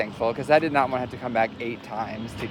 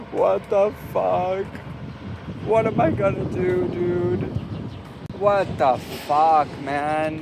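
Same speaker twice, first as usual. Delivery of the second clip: loud, higher, dragged-out furious rant; angry outburst; 5 semitones higher, 3 dB louder, slower than usual. Real, not acted. Broke vlogger rants over lost blood money, loud and angry. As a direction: let the anger spill out slowly. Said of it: "I'm so fucking angry".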